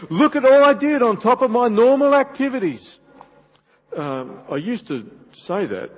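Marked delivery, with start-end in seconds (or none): 0.1-3.0 loud, high hammed-up brag; showy boasting. Husband demanding credit from his wife, loud mock boasting. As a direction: crow about it at full volume, pitched right up.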